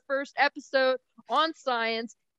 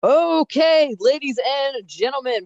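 booming auctioneer opening; 3 semitones higher, 7 dB louder than usual. Pretend. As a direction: announce it like an auctioneer. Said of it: "you need to bring out your auctioneer voice".

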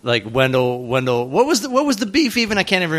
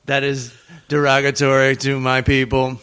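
robot voice. Pretend. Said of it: "pretend like it's Steve the robot".

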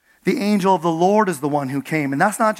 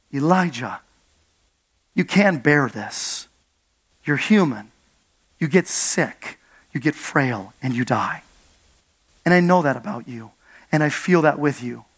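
gentle empathy; 4 semitones lower than usual. Acted. God comforting Elijah in his weakness, low and tender. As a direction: speak it as if kneeling beside him.

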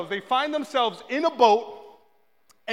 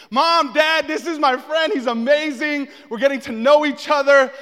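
proud introduction; 3 semitones higher, 6 dB louder than usual. Acted. Proudly introducing friend to parents.

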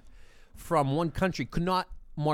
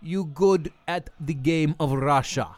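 fake Russian accent; 3 semitones higher than usual. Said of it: "What accent is this, Mike?".

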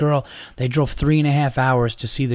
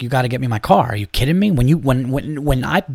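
retold angry rant. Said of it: "I was like".

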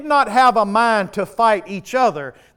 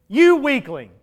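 louder taunt; 3 semitones higher than usual. Acted. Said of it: "the enemy yell in your ear".

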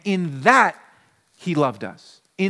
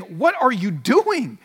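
complaining crowd; 3 semitones higher than usual. Retold or imitated. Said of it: "they're complaining, saying".

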